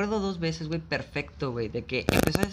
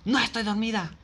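mock hysterical denial; 4 semitones higher, slower than usual. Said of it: "le grita así toda pinche histérica".

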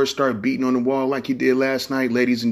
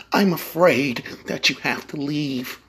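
polite firing voice; 4 semitones higher, slower than usual. Retold or imitated. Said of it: "When a motherfucker be like".

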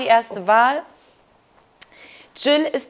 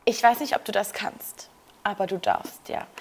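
snooty teacher; 3 semitones lower, 6 dB quieter than usual. Retold or imitated. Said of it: "wie so eine dumme Lehrerin früher gesagt".

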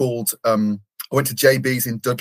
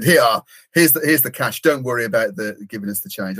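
put-on Swedish accent. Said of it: "in a Swedish accent, which I'm gonna try and do".

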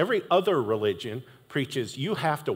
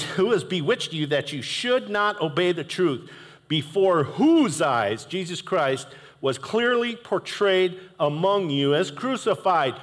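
raised, slowing rebuke; mildly sarcastic; 4 semitones higher than usual. Retold or imitated. Paul rebuking the Galatians, mildly sarcastic. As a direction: chide them, a little upset. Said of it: "he's kinda sarcastic".

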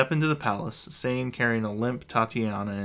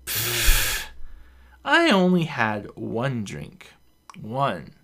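slow, slurred "one drink" protest; tipsy insisting; 4 dB louder, much slower than usual. Acted. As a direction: insist slowly like a mild drunk.

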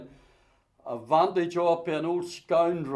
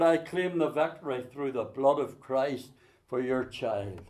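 retold prayer. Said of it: "and I said".

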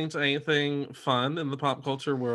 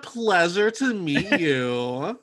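customer service voice; 4 semitones higher, much slower than usual. Pretend. Mimics polite greeting.

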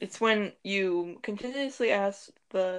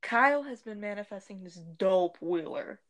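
glitching audio. Real, not acted. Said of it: "you keep glitching out".

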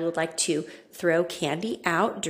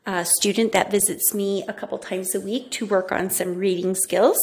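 echoey room. Real, not acted. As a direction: echo of a bare empty office. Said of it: "If I sound a little echoey".

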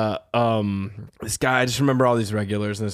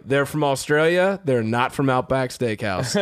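slow, pointed, higher-pitched correction; exasperated; 3 semitones higher, slower than usual. Retold or imitated. Bouncer setting drunk regular straight, exasperated. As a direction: spell it out for a drunk.

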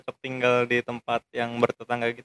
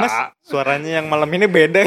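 louder teasing line through a laugh; laughing mock complaint; 3 semitones higher, 5 dB louder than usual. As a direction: tease like a nosy neighbour, laughing. Imagined neighbour joke. (tetangga iseng menyindir sambil tertawa)

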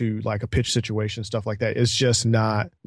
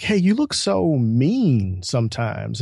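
laughing quote; slower than usual. Retold or imitated. Retelling how someone called him mean, laughing through it. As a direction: laugh your way through the remark. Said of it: "I had a person tell me that they're like".

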